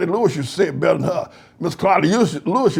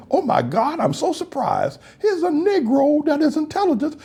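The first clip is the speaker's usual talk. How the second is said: higher, gushing fake surprise with a laugh; mock amazement; 8 semitones higher than usual. Mocking white surprise at an intelligent Black man. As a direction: act shocked at finding a smart one.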